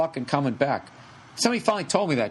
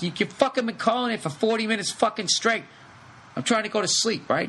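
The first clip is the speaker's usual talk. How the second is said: higher, exasperated yelling at her; furious shouted complaint, pitched up; angry rant; 7 semitones higher than usual. Retold or imitated. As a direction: blow up at the pest who won't stop calling. Yelling at caller over phone.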